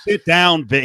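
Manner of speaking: mock it in disbelief; mocking quote. Host scoffs at the fan's claim, mocking. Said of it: "LeBron didn't say".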